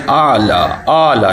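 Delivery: اعلی as plain aa-la without ayn; wrong reading. Shown as a demonstration. Teacher showing the mistake, اعلی with no throat sound. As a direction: say اعلی flatly as in everyday Urdu. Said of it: "نہیں پڑھنا".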